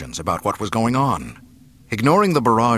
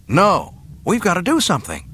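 alarmed protest; 10 semitones higher, 5 dB louder, much faster than usual. A narrator's reading. Luke alarmed at her fate.

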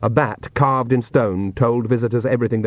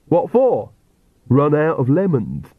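Igor voice; 4 semitones higher than usual. Acted. Igor answers Nanny in pieces.

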